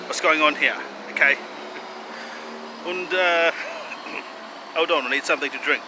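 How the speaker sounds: mock German accent, earnest self-promotion; wobbly, hammed-up German accent. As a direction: put on a slightly Eastern European German accent. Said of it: "I'm having a little trouble with this accent".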